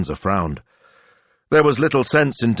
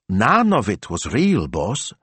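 stunned disbelief; 4 semitones higher, slower than usual. Acted. Disbelieving question to the boss.

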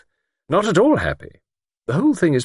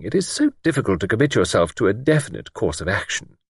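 gentle admiration; 9 semitones higher than usual. A narrator's reading. Miss Wainfleet praising capable Bridget to Luke, gently admiring. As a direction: admire gently, in a high-pitched character voice. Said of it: "a note of gentle admiration in her voice".

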